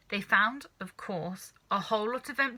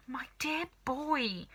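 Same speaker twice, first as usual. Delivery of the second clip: fond cry; 5 semitones higher, 3 dB quieter, slower than usual. A narrator's reading. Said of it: "cried Mister Killycranky".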